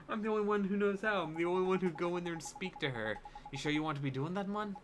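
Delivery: a touch of an emphatic fairy sidekick; lightly voiced wary fairy. Fairy questioning the boy's plan, mildly wary.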